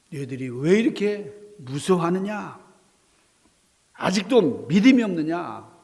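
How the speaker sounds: 크고 엄하게 나무라기; 제자들을 다그치는 예수의 질책; 꾸짖음. Acted. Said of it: "꾸짖으시는 겁니다". (엄하게 꾸짖는 목소리)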